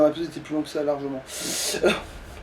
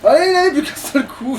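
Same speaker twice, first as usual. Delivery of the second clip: higher and louder, pushing the boss down; tense urging; 10 semitones higher, 6 dB louder than usual. Real, not acted. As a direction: urge it on, almost there. Boss almost dead, tense urging.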